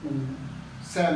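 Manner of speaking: उ सैन said light and short, neutral tone. Shown as a demonstration. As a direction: toss उ सैन off lightly with no set pitch. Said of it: "माने ये neutral टोंग है".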